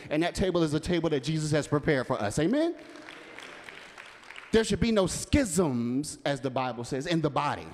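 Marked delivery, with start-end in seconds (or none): 2.4-2.7 1 calling out amen. Real, not acted. Preacher calls for congregation response.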